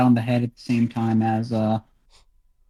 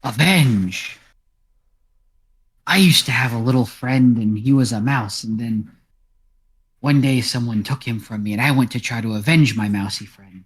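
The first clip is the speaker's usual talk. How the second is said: talking cat. Acted. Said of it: "Cat looks around and says".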